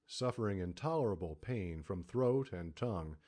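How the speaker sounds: usual speaking voice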